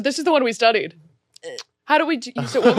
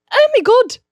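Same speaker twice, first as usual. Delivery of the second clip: put-on Irish accent; 4 semitones higher than usual. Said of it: "Um, Irish".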